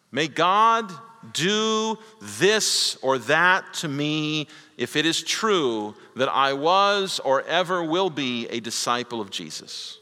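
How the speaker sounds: preacher acting out Peter's oath, slow and emphatic; Peter swearing an oath.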